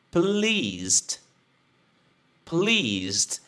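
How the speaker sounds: "Pleased" said clearly with the final sound audible; model pronunciation. Shown as a demonstration. Teacher saying "Pleased" for students to repeat.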